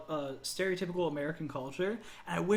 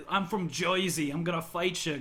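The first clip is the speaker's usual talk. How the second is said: put-on Jersey accent. Imagining an anime girl from New Jersey, mock Jersey accent. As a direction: play a scrappy Jersey native picking a fight. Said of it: "is someone trying to be, like".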